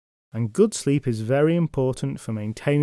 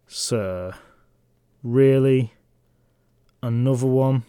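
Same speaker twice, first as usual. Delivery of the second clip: weary servant; slower than usual. Acted. Weary servant complains to knight.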